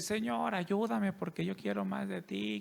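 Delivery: high, sugary praying voice of a mom; mock pious prayer. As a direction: play the devout mother praying sweetly. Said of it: "así dice, cuando mi mamá está orando". (oración piadosa y aguda, en burla)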